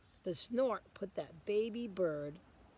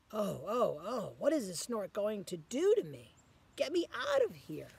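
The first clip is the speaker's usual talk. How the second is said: scared; 2 semitones higher, 5 dB louder than usual. Acted. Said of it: "Is he scared?".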